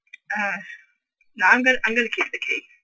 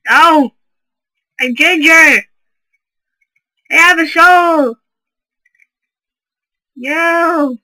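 loud, high mock panic; hammed-up pleading yell; 5 semitones higher, 8 dB louder, slower than usual.

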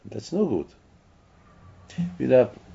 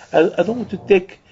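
high, louder plea; pleading eyes; 7 semitones higher, 3 dB louder than usual. Pretend. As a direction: beg high and urgent, refusing to look. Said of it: "And the eyes are screaming".

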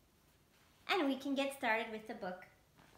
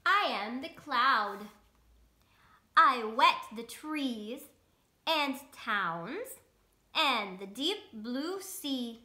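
louder, slow storybook cloud; cloud character; 3 dB louder, slower than usual. Acted. Reading the cloud's lines to children, louder and slow. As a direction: boom it out slowly as the cloud.

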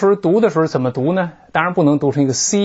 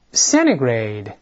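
"centigrade" with the T dropped, sounding "cenigrade"; quicker reading; 5 semitones lower, much slower than usual. Shown as a demonstration. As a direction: repeat "centigrade" the fast way, no T. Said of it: "再来一遍". (再快读一遍"centigrade"，T不发音)

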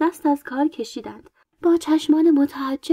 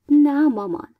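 a lightly raised protest to mother; mild child's cry; 3 semitones higher, 3 dB louder than usual. A narrator's reading. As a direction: call it out, only slightly louder. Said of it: "مریتاتون فریاد زد". (فریاد ملایم کودکانه)

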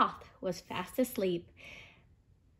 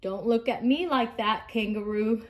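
grumpy. Acted. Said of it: "said Elephant grumpily".

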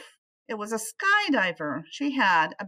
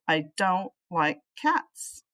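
put-on grumpy old man; slower than usual. Mister Flugel refusing the cat at bedtime, slow grumble. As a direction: drawl it out like a grouch.

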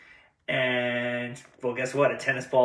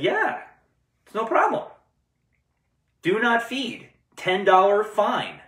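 put-on rich kid's voice; 9 semitones higher, 4 dB louder than usual. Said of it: "And the kid said".

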